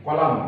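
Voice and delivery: কলাম with the final n left silent; teacher's model of কলাম, stopping at m; silent n in column. Shown as a demonstration. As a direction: say কলাম ending on the m, no n. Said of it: "এখানে এন এর উচ্চারণ কিন্তু হবে না".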